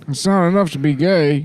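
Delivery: mock slogan voice.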